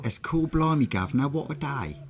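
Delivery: high-pitched put-on English accent; mock English accent. British speaker mimicking the other's attempt, mock English accent. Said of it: "where did the accent go?".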